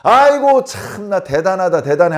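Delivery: a sarcastic jab, dripping with contempt; mocking scorn. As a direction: scoff at them with fake admiration. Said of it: "하면서 서로 무시하고 업신여기는".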